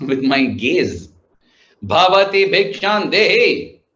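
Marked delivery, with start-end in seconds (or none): 1.8-3.8 demanding like a king. Retold or imitated. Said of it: "like a king demanding for his tax".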